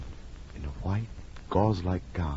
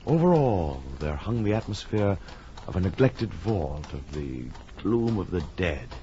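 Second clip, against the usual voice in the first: measured, brooding storytelling; old radio horror narrator; gothic narration. A narrator's reading. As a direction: lead the listener into dread.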